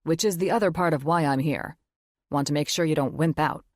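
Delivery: lightly voiced gruff teasing father; teasing dad. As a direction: rib her like a proud dad.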